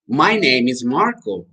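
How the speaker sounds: slow, careful teacher demo; measured English lesson answer; slow model answer. Shown as a demonstration. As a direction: say it slowly for learners to repeat.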